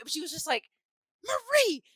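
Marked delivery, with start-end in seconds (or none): 1.3-1.8 high, loud exasperated shout; exasperated call. Retold or imitated. Grandma scolding Marie over twelve cheesecakes, high and loud. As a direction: call her name out in disbelief. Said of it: "angry in a way".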